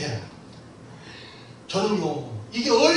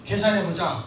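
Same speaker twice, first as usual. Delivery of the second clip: warm, gentle; 4 semitones lower than usual. Retold or imitated. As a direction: speak like a father to his youngest son. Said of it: "따뜻하게".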